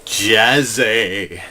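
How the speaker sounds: preacher's call for the crowd; mock sermon call; call-and-response. Shown as a demonstration. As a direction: cue the congregation to answer. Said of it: "Everybody in a moment of jazziness say".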